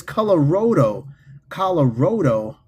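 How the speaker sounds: "Colorado" as colo-ROH-do; Colorado with long O. Shown as a demonstration. Repeating a chatter's version, "Colorado" as colo-ROH-do. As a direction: say "Colorado" with ROH in the middle, like "road". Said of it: "you said skinless. It's Co".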